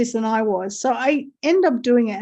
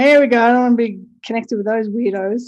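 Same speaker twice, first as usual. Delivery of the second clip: louder mock groan of here we go; sarcastic; 5 dB louder, faster than usual. Told to put a Q in the name, a louder sarcastic groan. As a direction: roll your eyes at the Q name, louder. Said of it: "Now I'm being sarcastic".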